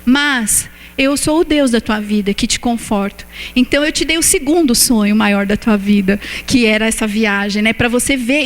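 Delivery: a hint of God comforting his child. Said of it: "E o Senhor falou assim".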